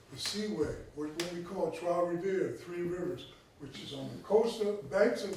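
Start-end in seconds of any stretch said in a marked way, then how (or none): 1.7-2.6 "Trois Rivières" said the French way, as "trwa ree-vee-air"; French place name. Shown as a demonstration. Lecturer names the river town in his self-confessed atrocious French. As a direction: give "Trois Rivières" a French sound, even if rough. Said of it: "My French is atrocious".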